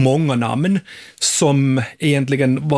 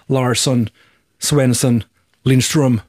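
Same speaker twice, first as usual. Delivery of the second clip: Nordic surnames in American English; American accent; slower than usual. Shown as a demonstration. Host listing Nordic names in the USA, American accent. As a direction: anglicise each surname, American style. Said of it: "exempelvis i, i U S A".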